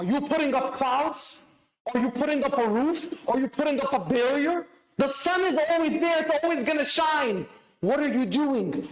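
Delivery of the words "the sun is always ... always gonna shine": The sun is always there, pitched higher with a lift on is; rising preacher's emphasis driving it home; preaching emphasis. Acted. Repeated line, preached up.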